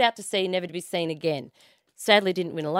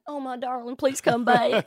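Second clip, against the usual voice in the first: hammed-up pining wife; yearning Texas missus; 4 semitones higher, slower than usual. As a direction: pine theatrically for an absent husband. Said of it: "his missus back in Texas yearning for him".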